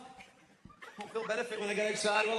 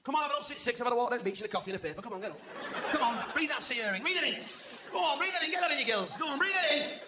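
mock cheery dad. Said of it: "my dad never used to let me sleep".

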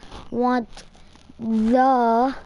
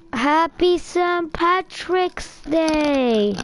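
cheerful greeting; 4 semitones higher, much slower than usual. Real, not acted. Festive greeting to viewers.

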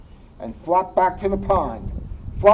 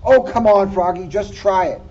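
bright, louder coaxing mom voice; coaxing mother; 3 semitones higher, 6 dB louder than usual. Acted.

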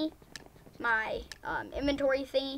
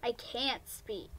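quiet giving up; 5 semitones lower, 10 dB quieter, slower than usual. Real, not acted. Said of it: "I'm just not gonna talk".

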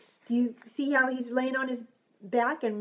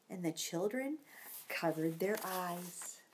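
hushed; 5 semitones lower, 10 dB quieter than usual. A narrator's reading. Hushed narration.

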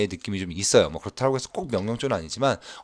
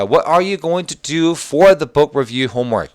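very slow, higher English model reading; slow read-aloud; 6 semitones higher, 6 dB louder, much slower than usual. Shown as a demonstration. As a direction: read it slowly, word by word. Teacher reads dialogue line. (천천히 또박또박 읽기)

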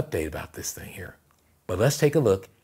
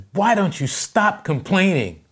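high, slow, exasperated dad yell; 10 semitones higher, 5 dB louder, slower than usual. Retold or imitated. Dad scolding his son in an argument, yelling. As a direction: yell it like a fed-up father. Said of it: "his son's yelling".

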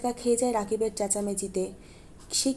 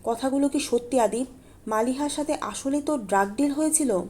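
disbelief; 3 semitones higher than usual. Acted. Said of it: "অবিশ্বাসের দিকে আদিবের দিকে তাকায়".

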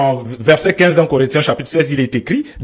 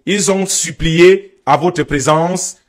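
measured scripture reading with pauses; lecture biblique à voix haute; much slower than usual. Acted. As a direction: read the verse out deliberately, phrase by phrase. Lit un passage biblique. (lecture posée d'un verset biblique)

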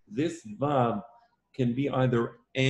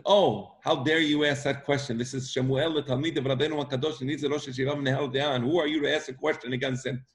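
quick, slightly raised scolding of a questioner; mock indignant rebuke; 2 semitones higher than usual. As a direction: imitate someone indignantly putting down a student.

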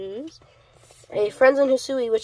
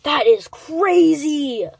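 amazed; 4 semitones higher, 4 dB louder, much slower than usual. Real, not acted. Amazed at rare pull.

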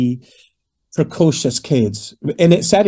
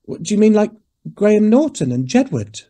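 put-on little girl; 8 semitones higher than usual. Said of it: "And the wee girl just suddenly goes".

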